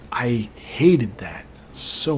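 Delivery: slow, breathy whispered confession. Real, not acted. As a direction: breathe it out slowly, barely voiced. Aside about hated car rides.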